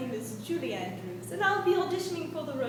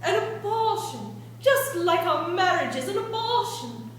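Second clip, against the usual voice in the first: dramatic outburst; 2 semitones higher, 4 dB louder than usual. Acted. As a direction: fling the word at him in fury.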